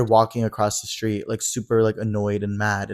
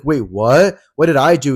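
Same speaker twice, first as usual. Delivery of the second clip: stunned; 3 semitones higher, 7 dB louder than usual. Retold or imitated. Rocky stunned by the snap.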